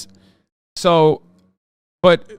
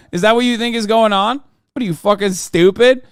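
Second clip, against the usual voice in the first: scornful retort; 6 semitones higher, 3 dB louder than usual. Real, not acted. Scornful retort at imagined racist.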